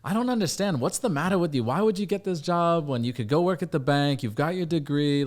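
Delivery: high-pitched imitation of a baffled dad; exasperated dad. Dad questioning son's new sales job, exasperated. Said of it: "he's like".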